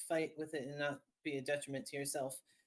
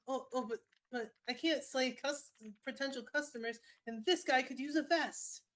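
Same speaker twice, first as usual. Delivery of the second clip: a pushy street vendor, pitched up; smarmy salesman voice; 8 semitones higher than usual. Acted. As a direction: sweet-talk a customer, stretching each word. Salesman pleads to spare customers.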